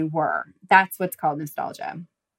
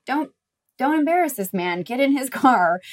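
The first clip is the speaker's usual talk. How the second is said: higher, insistent inner voice; lying head voice; 5 semitones higher, 3 dB louder than usual. Acted. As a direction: imitate the head voice pushing you along. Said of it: "The voice lying to me was like".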